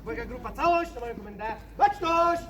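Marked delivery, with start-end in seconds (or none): 1.8-2.4 drill sergeant. Acted. Guide commands group as drill corporal.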